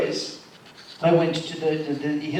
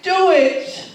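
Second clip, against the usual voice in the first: high, loud tearful mother's voice, slowed; imitating mother crying; 10 semitones higher, 5 dB louder, slower than usual. Son retelling his mother's airport breakdown, high teary whine. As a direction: whimper it like a frail old mother.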